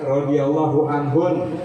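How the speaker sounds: radhiyallahu anhun with a light Arabic lilt, slow; a hint of Arabic accent. Shown as a demonstration. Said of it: "Kalau mau agak logat-logat Arab ya".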